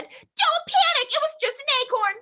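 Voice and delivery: calm the panic in a high hen voice; little chicken voice. Acted. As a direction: chicken interrupting to reassure. Chicken interrupts.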